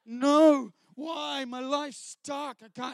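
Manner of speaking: slow, overacted anguish with loud cries of No; mock skit actor wailing about his stuck life; hammed-up despair. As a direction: ham up the stuck man in the Christian skit. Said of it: "he's doing this".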